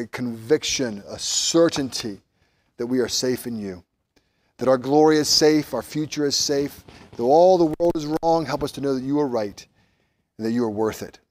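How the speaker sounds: earnest public prayer, even-toned; heartfelt prayer, easing down towards the end; congregational prayer. Real, not acted. Leads closing prayer.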